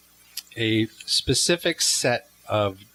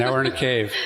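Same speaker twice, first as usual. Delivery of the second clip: cave echo; 2 semitones higher than usual. Shown as a demonstration. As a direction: cave reverb on the voice. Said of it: "There's an echo".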